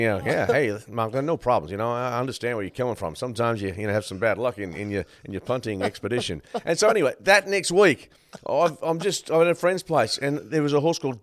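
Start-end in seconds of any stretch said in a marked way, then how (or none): 0.2-6.4 lightly imitated American accent; a hint of an American accent. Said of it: "in American accent".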